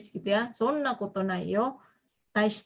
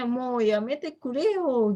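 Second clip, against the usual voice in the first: expressive embarrassment; much slower than usual. Shown as a demonstration. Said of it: "Ini memang harus ekspresif".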